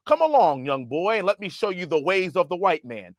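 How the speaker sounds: patronizing, high start, talking down; condescending white liberal. Retold or imitated. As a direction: pat them on the head with your voice. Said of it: "pat us on the head and say".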